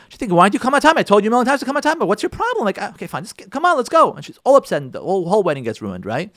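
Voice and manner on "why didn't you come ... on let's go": higher-pitched, impatient nagging; fed-up, high-pitched complaint; exasperated wife. Acted. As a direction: imitate a wife fed up with lateness. Acted thoughts of an upset wife.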